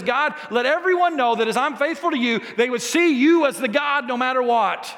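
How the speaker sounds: high, ringing appeal building to a shout; bold prayer. Retold or imitated. Elijah praying a totally different prayer, boldly. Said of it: "prays a totally different prayer".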